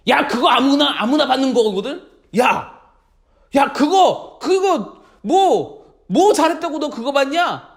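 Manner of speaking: mildly scornful acted taunt; jealous belittling. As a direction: belittle a friend out of envy. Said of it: "막 질투를 해요".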